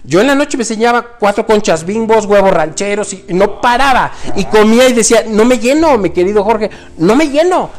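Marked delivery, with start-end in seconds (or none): 5.3-7.7 whiny complaint. Retold or imitated. Retold complaint of endless hunger.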